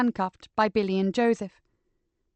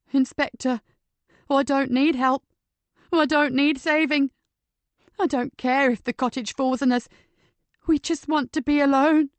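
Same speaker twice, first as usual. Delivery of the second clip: agitated refusal; 5 semitones higher, 4 dB louder than usual. Acted. Patrick refusing rescue, agitated.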